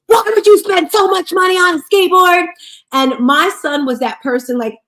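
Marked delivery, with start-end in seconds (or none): 0.1-2.5 raised, higher yelling at son; retold scream. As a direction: scold him loudly. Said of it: "I was screaming at him".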